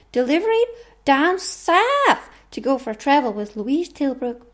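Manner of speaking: put-on putting on an American accent; lightly voiced toy pals in American accents; chatty mock-American accent. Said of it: "that's my American accent".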